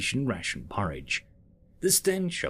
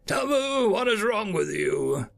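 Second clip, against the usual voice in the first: snapping; 10 semitones higher than usual. Acted. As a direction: snap at the assistant. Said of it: "The arson snapped his beak".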